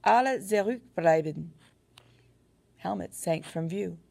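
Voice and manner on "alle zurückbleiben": high, loud urgent shout. A narrator's reading. Narrator ordering the soldiers back, loud shout. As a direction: yell the order. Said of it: "I shouted".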